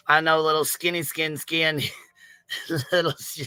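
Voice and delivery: real giggles cutting off the words. Real, not acted. Streamer unable to stop her running bit, giggling. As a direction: try to talk, collapse into laughing. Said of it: "I got the giggles now".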